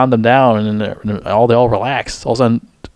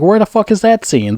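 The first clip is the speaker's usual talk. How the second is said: higher, incredulous demand; exasperated outburst; 9 semitones higher than usual. Retold or imitated. Reviewer venting at a missing scene, exasperated and pitched high. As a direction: pitch it up in disbelief. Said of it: "I'm like".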